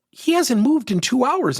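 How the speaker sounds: high, slow, amazed exclamation; amazed remark. Retold or imitated. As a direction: marvel at it, drawing it out. President amazed at motionless coach.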